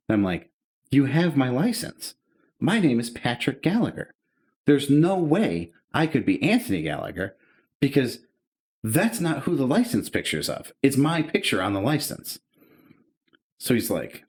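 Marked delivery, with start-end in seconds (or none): 0.9-12.4 higher, emphatic retold protest; incredulous explaining, pitch raised; exasperated insistence. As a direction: spell out the obvious to someone not getting it. Acted exasperated protest to confused cop.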